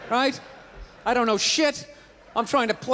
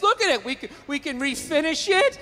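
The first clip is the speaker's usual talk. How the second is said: mildly excited, higher sales pitch; eager pitch; 3 semitones higher than usual. Acted. Boyfriend shows girlfriend a found stool, mock excitement. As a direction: sell it with playful enthusiasm.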